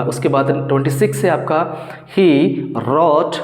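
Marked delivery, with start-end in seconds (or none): 2.1-3.4 slow dictation. Shown as a demonstration. Teacher dictates example sentence.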